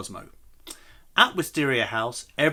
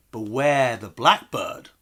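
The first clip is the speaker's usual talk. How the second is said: ominous warning; 4 dB louder, slower than usual. Acted. Secretary's warning quoted.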